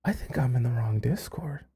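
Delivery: hushed, breathy aside to herself; whisper. Real, not acted. Stunned streamer mutters aside.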